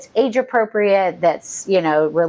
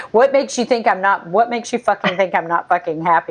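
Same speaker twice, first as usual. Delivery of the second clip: imitating an irritated swearing man, lightly voiced; a touch of exasperated cursing; mock irritated. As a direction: lean on each fucking with mild annoyance. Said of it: "he says fucking, like, way more".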